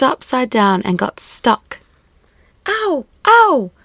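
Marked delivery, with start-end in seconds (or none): 2.7-3.7 high, loud yelps of pain; yelling in pain. Acted. Boy in bed, tooth stuck, yelling. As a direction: yelp like it really hurt. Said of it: "yelled William".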